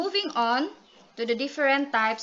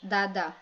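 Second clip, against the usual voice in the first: "dada" with both syllables equally unstressed; two light, even beats on "dada"; pyrrhic, no stress; 3 semitones lower than usual. Shown as a demonstration. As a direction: say "dada" with neither syllable emphasized. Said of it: "combination of two unstressed syllables".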